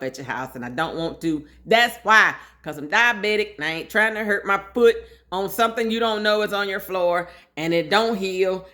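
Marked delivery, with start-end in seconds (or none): 1.7-8.7 louder and higher, insisting hard; emphatic outburst. Real, not acted. Tells hosts why her shoes stay on, emphatic and loud. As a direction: push back on the host, firmly and loud.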